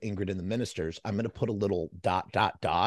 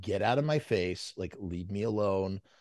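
ordinary delivery

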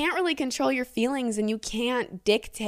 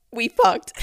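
high, loud, giggling through the words. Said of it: "can't read this without laughing".

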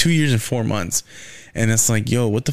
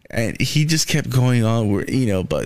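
plain

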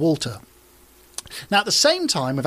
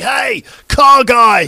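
high, loud screaming yell. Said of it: "just screams at me".

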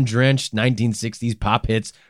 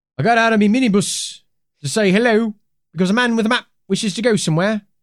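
bad put-on British accent, pitched up; 9 semitones higher than usual. Quoting Gerard Higgins, the smart taxi driver who approached Bergman, in a crappy British accent. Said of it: "It's just like a crappy British accent just came out".

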